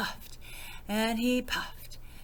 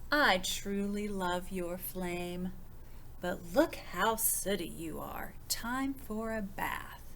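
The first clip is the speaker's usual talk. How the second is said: tender mama. Acted. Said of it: "Mama said".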